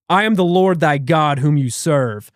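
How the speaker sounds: loud, slow divine proclamation; cold, rude God. Retold or imitated. Unseen entity speaking in his head, cold commanding voice. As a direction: declare it slowly and imperiously, like a deity. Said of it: "like, cold and, you know, rude".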